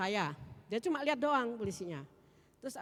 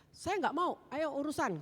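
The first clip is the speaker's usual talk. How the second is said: angry demand; 6 semitones higher, 4 dB louder than usual. Retold or imitated. Angry driver's demand, retold.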